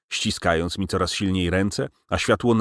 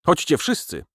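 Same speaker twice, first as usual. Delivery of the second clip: pleading; 9 semitones higher than usual. A narrator's reading. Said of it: "rzekł prosząco".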